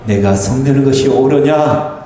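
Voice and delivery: low, measured scriptural reproof; dignified rebuke. A narrator's reading. Preacher reads God's question to Jonah, dignified rebuke. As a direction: reprove with composed, low authority. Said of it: "아주 점잖하게 요나를 꾸짖습니다".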